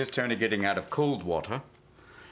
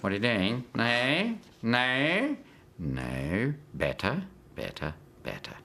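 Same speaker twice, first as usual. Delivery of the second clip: put-on Aussie accent, correcting someone; comic Australian accent impression; mimicked Australian accent; slower than usual. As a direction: imitate an Australian coaching Robin on his accent. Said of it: "he mimics ours better".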